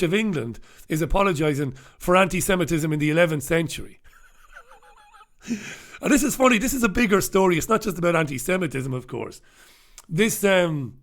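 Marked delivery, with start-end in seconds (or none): 5.5-6.0 short unvoiced laugh; amused breathy chuckle. Real, not acted. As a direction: laugh briefly to yourself. Laughs at the apology story.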